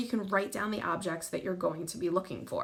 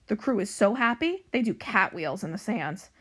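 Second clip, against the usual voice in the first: animated storybook narration, louder than chat; story reading to children; 3 dB louder than usual. A narrator's reading. Librarian reading a pirate cat book to young pupils, animated narration. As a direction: read it out clearly for young listeners.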